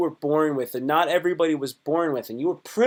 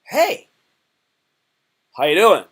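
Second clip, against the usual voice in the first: mock friendly greeting; 6 dB louder than usual. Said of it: "and then they go".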